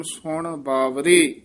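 ਸੁਣ ਬਾਵਰੇ set apart with a falling close; pause after phrase. Shown as a demonstration. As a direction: say ਸੁਣ ਬਾਵਰੇ, then come to a rest. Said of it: "ਇੱਥੇ ਵਿਸਰਾਮ ਹੈ".

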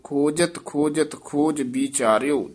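ਖੋਜਤ, ਖੋਜਤ, ਖੋਜ ਵਿਚਾਰਿਓ said in short phrases, resting on ਵਿਚਾਰਿਓ; pausing at rests. Shown as a demonstration. Teacher models the line for a reading pupil, pausing at rests. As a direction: rest mainly after ਵਿਚਾਰਿਓ. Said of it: "ਜ਼ਿਆਦਾ ਵਿਸਰਾਮ ਤੇ ਰੁਕਣਾ".

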